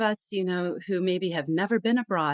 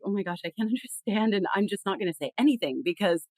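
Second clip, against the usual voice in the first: embarrassed; 2 semitones higher than usual. Retold or imitated. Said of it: "we start getting really embarrassed".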